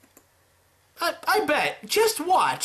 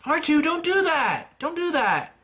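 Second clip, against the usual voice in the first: higher scolding voice, like a worried parent; half-joking fussy scold; mock scolding; 10 semitones higher than usual. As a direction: tut at him like a fussing parent. Scolding R2 after injury.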